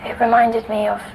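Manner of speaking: soft, half-whispered telling; hushed recollection. Acted. Girl quietly telling the doctor of the Candleman. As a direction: recall the figure as if afraid to wake it. Girl recounting a nightmare figure.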